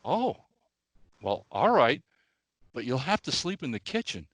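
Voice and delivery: a hint of a dainty old lady agreeing. Old lady accepts driver as replacement pet, mild prim voice.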